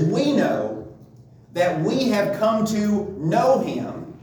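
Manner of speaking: slow, deliberate reading with "know" given weight; emphasis on know. Retold or imitated. Preacher reading the verse to the congregation, emphasis on "know". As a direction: draw out the verse and lean on each "know". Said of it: "he's emphasizing the word know".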